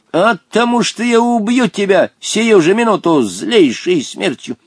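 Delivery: high, ringing death threat; threatening old genie. A narrator's reading. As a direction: pronounce the doom with relish and force. (грозно, звонко, голосом джинна)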